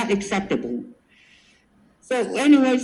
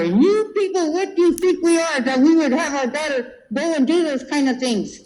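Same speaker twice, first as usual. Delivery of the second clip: raised pitch, mom telling off the counselor; indignant outburst; 5 semitones higher than usual. Retold or imitated. Mom telling off the racist counselor, indignant raised voice. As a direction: let the insult land high and sharp.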